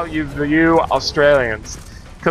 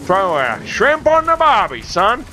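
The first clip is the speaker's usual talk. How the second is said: exaggerated Australian twang, lifted at the end; broad Australian accent; 3 semitones higher than usual. Shown as a demonstration. Streamer answering complaints he doesn't sound Australian, broad Australian accent. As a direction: ham up a stereotypical Aussie accent. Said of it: "I'm gonna try and sound Australian".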